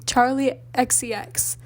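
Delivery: slow, careful repeat of the name; deliberate, drawn-out repetition; struggling to say it. Retold or imitated. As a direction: say "X C X" slowly, each letter separate. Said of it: "I was, like, really struggling".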